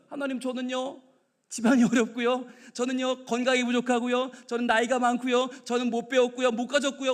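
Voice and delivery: level, evenly repeated list; reciting excuses. Acted. Preacher as churchgoers giving God their excuses, monotone recital. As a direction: tick off each excuse on the same held note.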